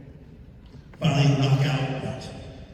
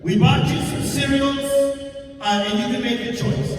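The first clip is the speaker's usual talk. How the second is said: sweet lady voice; 9 semitones higher than usual. Retold or imitated. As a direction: spell out each chore sweetly.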